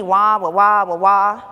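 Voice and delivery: loud droning wah-wah imitation; Charlie Brown's teacher. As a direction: mimic a muffled cartoon teacher as pure noise. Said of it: "sounded like Charlie's Brown teacher".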